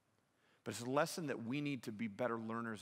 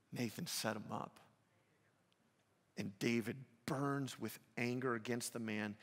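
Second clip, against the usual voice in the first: normal talking voice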